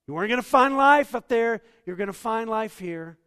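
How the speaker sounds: hammed-up furious father screaming from the porch; mock furious scream. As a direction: yell it like a fed-up dad calling his boy an idiot. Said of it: "The Father didn't scream from the porch".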